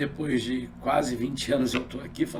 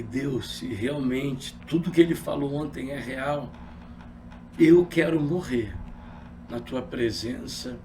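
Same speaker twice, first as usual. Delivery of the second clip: tearful prayer; 5 semitones lower than usual. Retold or imitated. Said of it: "eu chorei".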